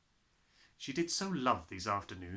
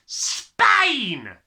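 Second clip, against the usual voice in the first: loud, much higher bellowing father; gruff father; 14 semitones higher, 16 dB louder than usual. Acted. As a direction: bark it out like a hurried father. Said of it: "the father said".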